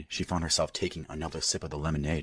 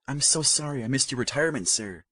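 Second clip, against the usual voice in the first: apologetic daughter; 8 semitones higher than usual. A narrator's reading.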